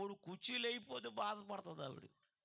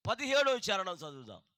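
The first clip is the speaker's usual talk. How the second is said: whispered announcement; 13 dB louder than usual. Real, not acted. Announcing scripture reading.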